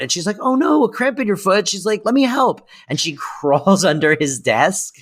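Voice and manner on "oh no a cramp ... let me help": Fran's lines pitched much higher, cooing; sweetly offering to help, mock-high; a hint of Fran's sing-song; imitating Fran. Fran voiced in retold scene.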